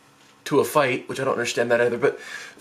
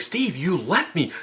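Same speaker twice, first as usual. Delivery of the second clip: slow, mildly raised accusation; accusing; 4 semitones higher than usual. Retold or imitated. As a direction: confront your brother reproachfully. Confronts brother, first milder take.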